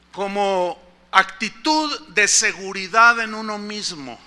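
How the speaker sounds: slow, even reading of "actitud de seguridad en uno mismo"; slow dictionary read. Shown as a demonstration. Preacher reads the dictionary definition to the congregation, slow. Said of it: "pongan atención cómo lo define".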